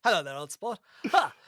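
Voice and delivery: put-on jolly, fast old-school aviator; old-timey pilot voice. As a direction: play a chatty thirties pilot. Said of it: "starting to sound a little bit like Quagmire".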